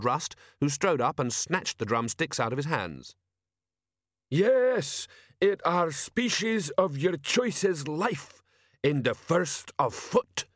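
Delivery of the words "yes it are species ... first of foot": high, slow troll bellow at the recruits; a drill-yard troll, slow and booming; troll sergeant shouting. A narrator's reading. Troll sergeant shouts to recruits, high and slow. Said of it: "shouted Sergeant Detritus".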